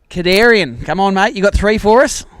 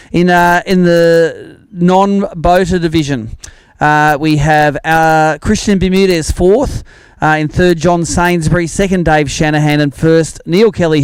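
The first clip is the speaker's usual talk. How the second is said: louder, measured announcer read of names and weights; leaderboard announcement; 3 dB louder, slower than usual. Acted. Tournament MC reading the top anglers to the crowd, announcer voice. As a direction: call the standings out to the crowd, slow on the numbers.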